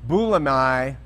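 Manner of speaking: "Bulamai" sounded out carefully; careful pronunciation attempt. Shown as a demonstration. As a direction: try "Bulamai", ending in an "eye" sound. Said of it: "is really the way to say it".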